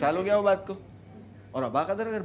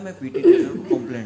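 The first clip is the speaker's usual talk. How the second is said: put-on kid's voice; 9 semitones higher, 11 dB louder than usual. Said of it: "भूरा बोलता है".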